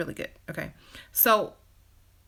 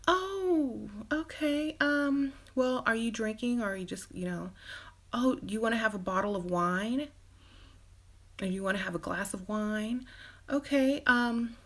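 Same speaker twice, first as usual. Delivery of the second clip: sweet, unsure date; 4 semitones higher than usual. Acted. Too-nice date ordering.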